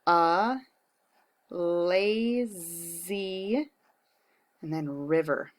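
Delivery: words spaced out while writing; slow dictation. Shown as a demonstration. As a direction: say each word as you write it. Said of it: "because it has slides".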